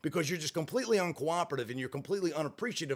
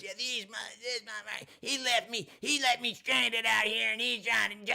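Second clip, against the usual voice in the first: lightly voiced whiny old woman; 7 semitones higher than usual. Woman complaining to friends on phone.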